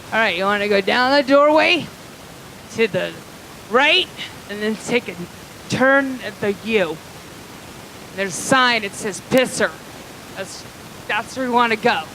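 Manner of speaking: halting mock-drunk directions; imitated boozy helpfulness; speaking alcoholic. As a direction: give directions in fluent drunk, with stray pauses. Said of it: "we do speak alcoholic here".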